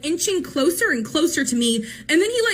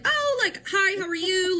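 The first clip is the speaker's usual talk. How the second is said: put-on old man; 5 semitones higher than usual. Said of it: "this, like, old man".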